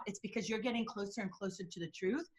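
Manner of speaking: ordinary talk, nothing marked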